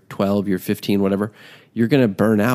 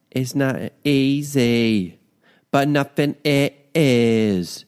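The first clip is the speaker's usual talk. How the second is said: slow, higher, drawn-out put-on voice; 5 semitones higher, much slower than usual. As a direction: stretch it out in a silly voice. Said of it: "repeated in a new voice".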